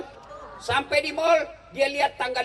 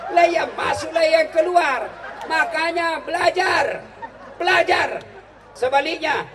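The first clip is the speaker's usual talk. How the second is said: preaching shout; 8 semitones higher, 6 dB louder than usual. Real, not acted. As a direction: drive the lesson home. Preacher urging audience. (seruan keras dan tinggi kepada jemaah)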